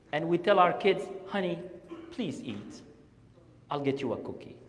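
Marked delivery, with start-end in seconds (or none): 1.3-4.6 soft, low coaxing; gentle begging. Acted. Parent bribing a child to eat, softly begging. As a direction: coax quietly, as if to a child. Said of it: "We're begging our children".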